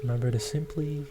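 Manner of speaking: unhurried meditation guide with long pauses; guided meditation. Acted. Host guiding listeners to ground through the breath, calm guided meditation. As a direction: lead listeners through each breath, leaving space between phrases.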